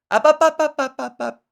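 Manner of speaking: high, loud regal up-up-ups; regal hushing. Retold or imitated. Hushing a fan who hands over money, regally. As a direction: shush her like royalty. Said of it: "in a polite, regal way".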